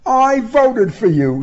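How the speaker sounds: high, amused woman's voice; tickled, high-pitched admission; laughingly delighted. A narrator's reading. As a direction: say it high and merrily, as if about to laugh. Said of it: "she said, laughing".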